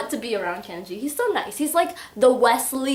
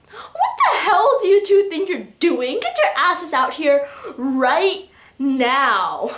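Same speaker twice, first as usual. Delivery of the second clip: mock-furious yell, higher and louder; acted angry Kenji; 5 semitones higher, 6 dB louder, slower than usual. Kenji scolds the pair in the closet, acted angry. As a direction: scold loudly, dragging out the final order. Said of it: "he's, like, so mad at her".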